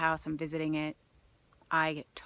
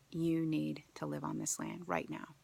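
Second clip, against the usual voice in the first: land spirits speaking; 6 dB quieter than usual. Retold or imitated. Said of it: "visitation of the land energies".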